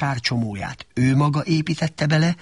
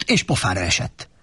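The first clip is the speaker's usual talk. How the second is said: ordinary delivery, nothing marked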